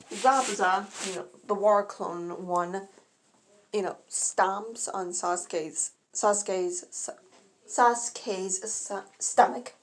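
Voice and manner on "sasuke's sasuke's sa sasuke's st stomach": tripping over the words; stumbling, repeating syllables; stuttering. Real, not acted. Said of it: "Shoot, I'm stuttering".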